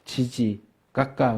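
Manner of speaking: lightly voiced baby talk to a small child; a hint of sing-song baby talk. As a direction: coo it like a parent talking to a toddler. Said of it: "우리가 어른들이 아이 대할 때 그러잖아요".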